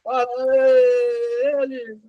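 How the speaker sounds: high, hushed mock crowd cheer; imitated audience cheer. Audience answering an inflamed speech, imitated cheer. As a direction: draw it out like a distant crowd. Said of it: "no fim a plateia".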